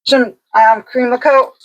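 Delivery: talking through a mouthful of cracker; words round a bite of cracker; eating dry crackers. Real, not acted. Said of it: "Sorry, I put a cracker in my mouth".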